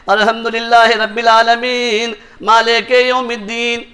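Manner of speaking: very slow, sloppy recitation of الحمدللہ; careless recitation. Shown as a demonstration. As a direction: show how not to recite the Quran, slowly. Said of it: "ایسے قرآن پڑھیں گے". (قرآن کی بے پروا، سست تلاوت کی نقل)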